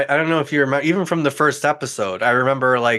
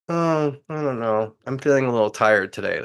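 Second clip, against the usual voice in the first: mock reluctant partner. Imitating the uncomfortable partner on the call, mock reluctance. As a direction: play a half-hearted excuse. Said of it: "the other one's like".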